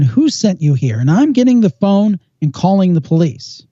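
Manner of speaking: exasperated demand, only lightly acted; mild retold yell. Exasperated man confronting girl at his door, mock yell. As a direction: imitate a fed-up man without really shouting. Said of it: "so he yelled at her".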